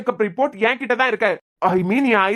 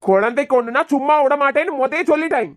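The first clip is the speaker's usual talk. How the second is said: angry confrontation. Acted. Father confronted over harm to baby.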